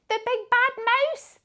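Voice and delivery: high, loud panicked little monster; high shout of a scared Gruffalo child; frightened shout. Acted. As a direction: yell it in terror. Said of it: "the Gruffalo child shouted".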